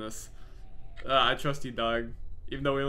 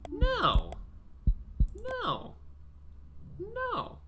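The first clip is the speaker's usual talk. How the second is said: screaming no; much slower than usual. Real, not acted. Screaming at jump scare creature.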